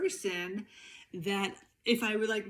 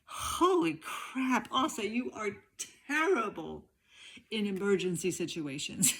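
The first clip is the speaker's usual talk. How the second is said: self-scolding. Retold or imitated. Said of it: "I say to myself".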